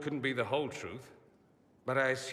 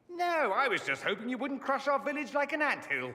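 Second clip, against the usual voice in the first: mock villager plea; 12 semitones higher than usual. Voicing villager in mock skit.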